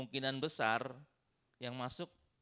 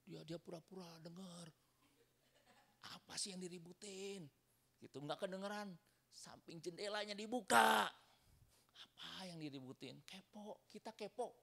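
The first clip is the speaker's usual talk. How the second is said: nosy neighbour; 9 semitones higher than usual. Retold or imitated.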